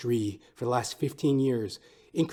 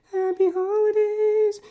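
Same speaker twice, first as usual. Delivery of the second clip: much higher, louder, slow squealed happy holidays; falsetto holiday call; 8 dB louder, slower than usual. Acted. Host squealing a greeting to listeners, slow and high. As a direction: squeal it high and drawn out like a silly carol.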